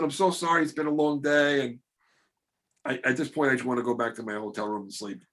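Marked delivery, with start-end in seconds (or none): 0.0-1.6 sheepish apology. Retold or imitated. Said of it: "But I said".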